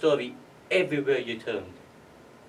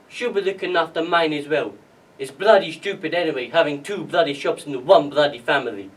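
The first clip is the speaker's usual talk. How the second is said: louder, retold father's rant; mildly cross, loud complaint; swearing grumble; 8 dB louder than usual. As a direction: grumble it loudly, leaning on each curse.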